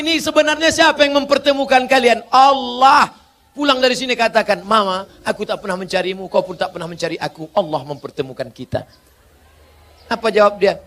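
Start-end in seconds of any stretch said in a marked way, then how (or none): 4.6-8.9 fast, softer sweet talk; tender fast whisper-soft. Pretend. Husband telling his wife sweetly that Allah brought them together, softer and fast. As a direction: coax her gently.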